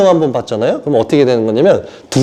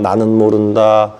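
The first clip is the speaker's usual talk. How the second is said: low, level, droning reprimand; understated imitation of scolding; mock rebuke; 6 semitones lower than usual. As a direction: imitate a stern rebuke in a lowered monotone. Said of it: "막 이렇게 책망만 하니".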